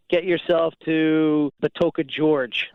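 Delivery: "George" said for "Gorge", like the name. Retold or imitated. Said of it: "instead of saying gorge, I say George".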